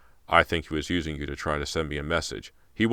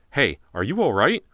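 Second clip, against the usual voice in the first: calling out; 7 semitones higher, 7 dB louder than usual. Acted. Officer calling to victim.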